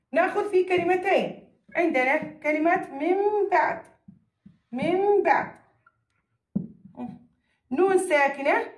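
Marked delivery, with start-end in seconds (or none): 2.9-3.8 من بعد with the ن said as a held m; iqlab pronunciation. Shown as a demonstration. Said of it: "كيف ألفظها؟". 4.7-5.5 من بعد with the ن said as a held m; iqlab pronunciation. Shown as a demonstration. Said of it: "كيف ألفظها؟".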